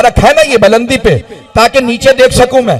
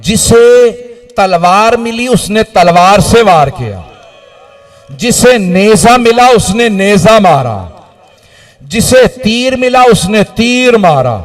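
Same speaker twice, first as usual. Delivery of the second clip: majlis lament recital; 2 semitones lower than usual. Acted.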